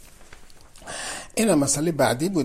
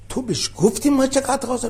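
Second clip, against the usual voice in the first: retold shout; 8 semitones higher, 4 dB louder than usual. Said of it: "داد زد".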